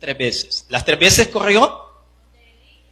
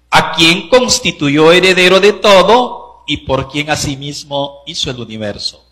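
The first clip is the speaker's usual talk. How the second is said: raised, solemn reading of the verse; scripture reading; 4 dB louder than usual. Acted. Preacher reading Hebrews aloud to the church, solemn and raised. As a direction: read the Word out to the congregation.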